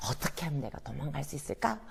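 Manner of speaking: unvoiced scheming whisper; whispered thought. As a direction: whisper the plan to yourself.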